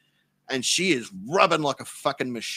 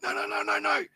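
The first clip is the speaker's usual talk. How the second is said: breathless whispered pleading; hushed urgent no's; whispering; 5 semitones higher than usual. Retold or imitated. Winded man whispering to Kelly, pleading in a whisper. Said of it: "I'm like".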